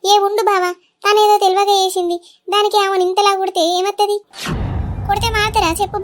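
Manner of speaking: put-on sister-in-law begs the brother to stop hitting the girl; urgent pleading. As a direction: cry out to stop him.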